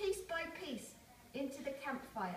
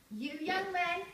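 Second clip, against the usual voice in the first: put-on old man calling the young men, raised voice; 5 semitones higher, 5 dB louder than usual. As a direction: call out to gather the men. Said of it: "He told the villagers".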